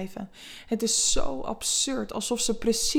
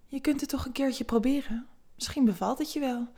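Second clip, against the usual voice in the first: softer, higher coaxing voice; soft and seductive; 4 semitones higher than usual. Acted. Vera softly seducing a hesitant Eva. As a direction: gently tempt her to try. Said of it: "met een zachte, verleidelijke stem".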